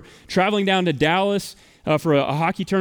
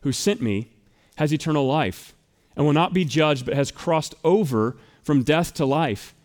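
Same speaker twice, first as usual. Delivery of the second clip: solemn scripture read; 3 semitones lower than usual. Acted. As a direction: read the verses with weight. Reads scripture aloud.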